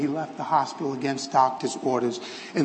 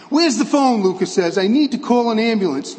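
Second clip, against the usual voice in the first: urgent; 5 semitones higher, 5 dB louder than usual. A narrator's reading. Doctor urgently calls for help.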